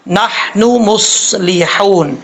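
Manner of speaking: نحن مصلحون slowly, syllable by syllable; measured teacher's articulation; careful tajweed demo. Shown as a demonstration. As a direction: draw out نحن مصلحون with clear breathy h. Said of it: "کیسے، میں آپ کو بتاتا ہوں".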